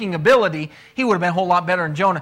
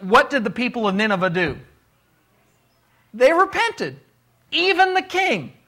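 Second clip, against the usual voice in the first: fervent preaching; 5 semitones higher than usual. Real, not acted. Fervent preaching about Nineveh's repentance.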